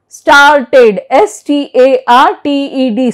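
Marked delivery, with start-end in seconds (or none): 0.1-1.0 "Started" in two syllables, full "ted" ending; pronounced E. Shown as a demonstration. Teacher shows E after T, "Started" with full E. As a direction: sound the E clearly in "Started", as star-ted. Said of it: "but here it is pronounced".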